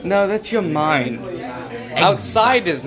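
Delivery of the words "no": ordinary talk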